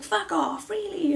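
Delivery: loud, high burst of disbelief; disbelieving partner. Retold or imitated. Partner hearing she is pregnant, loudly incredulous. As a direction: act out his astonished reaction. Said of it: "And he was like".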